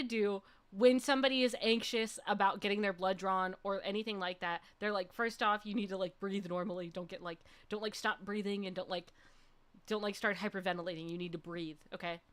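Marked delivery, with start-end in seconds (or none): 5.1-12.2 low, softer coaching voice; retold calm reassurance. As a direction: imitate a phlebotomist quietly settling a nervous patient. Retold calming of anxious patient.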